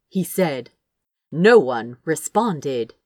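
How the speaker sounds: ordinary delivery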